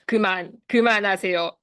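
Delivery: slow, mock-stern adult warning; firm stop command. Shown as a demonstration. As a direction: demonstrate scolding a child, drawn out. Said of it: "이 톤 아시죠?". (단호하게 천천히 제지하는 톤)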